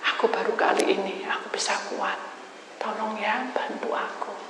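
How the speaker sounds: whispered plea through tears; tearful whisper. Retold or imitated. Grieving wife whispering a plea to the preacher. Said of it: "Dia nangis".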